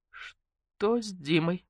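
very slow, faintly fearful question; small, anxious voice; squeaking. A narrator's reading. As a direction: draw the question out in dread. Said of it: "пискнула Наташка".

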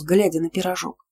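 plain reading voice

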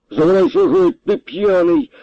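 high, loud shout to get out. A narrator's reading. The colonel yells at the drunk captain to leave, angry shout. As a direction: throw him out of the room with a yell.

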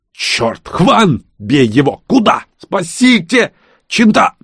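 high, loud frightened shouts; panicked cries. Acted. The crowd panics as the killer leaps at Max, frantic high shouts. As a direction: scream for help in sudden panic.

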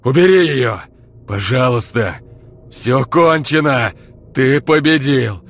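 high, loud panicked wail. Acted. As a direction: beg for mercy, howling. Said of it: "вопил Олег с пола".

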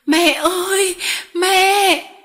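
put-on high, loud wail of a beaten child; desperate child crying out; child's cry of pain. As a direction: cry out for mother under the whip. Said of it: "Nó kêu lên".

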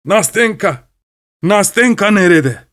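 high, furious cry for Nastenka; furious shout. Acted. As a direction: demand her angrily, slowly. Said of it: "hiddetli bir sesle bağırdı".

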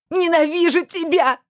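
very high, slow, piercing scream; frantic scream. Acted. Heroine screams frantically at Kir, shrill and desperate. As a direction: tear it out of your throat. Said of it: "закричала истошно".

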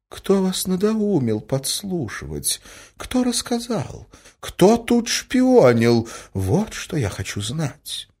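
high, slow, insistent questioning; hostess interrogating. A narrator's reading. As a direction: demand the answer with pained insistence. (настойчиво, протяжно)

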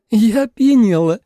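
high, loud tipsy statement; tipsy announcement. A narrator's reading. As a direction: state it plainly, but giddy. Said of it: "констатировала Суэлань". (пьяно, высоко и громко)

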